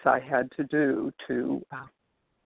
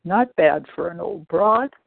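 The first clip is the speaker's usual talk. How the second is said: playful, upbeat self-praise; cheeky compliment to herself; lively old voice; 3 semitones higher than usual. Retold or imitated. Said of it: "and I say".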